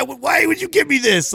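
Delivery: high, slow whiny complaint; mock angry kid. Kid complaining to grandma about the cheap car, whiny. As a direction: whine it like a bratty kid. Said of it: "I was angry".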